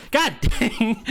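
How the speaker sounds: high, loud laugh through the words; laughing exclaim. Real, not acted. Laughing as Austria collapses right after his cheer, real laugh. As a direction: burst out laughing in disbelief.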